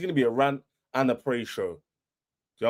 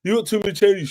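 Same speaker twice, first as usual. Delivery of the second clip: higher, whiny mock rival fan voice; mocking the haters; 7 semitones higher than usual. Fan mimicking rival haters with a whiny mock voice. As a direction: sneer their words back in a silly voice. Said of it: "When everyone was like".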